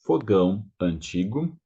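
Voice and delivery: fogão with a nasal ão glide; Portuguese ão. Shown as a demonstration. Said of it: "Remember the sound".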